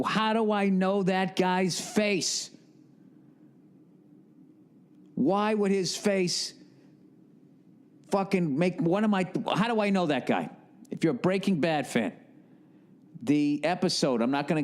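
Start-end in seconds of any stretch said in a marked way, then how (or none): 0.0-10.5 puzzled viewer. Retold or imitated. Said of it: "if you're wondering".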